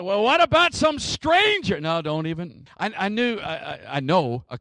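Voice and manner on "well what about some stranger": high-pitched mock questioning; objecting listener. Preacher mimics a listener seeking a loophole, high pleading question. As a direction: try one more loophole, pitch leaping up.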